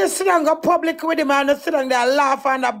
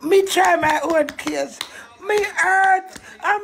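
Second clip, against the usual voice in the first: angry shout; 3 semitones higher, slower than usual. Real, not acted. Furious woman defending her child.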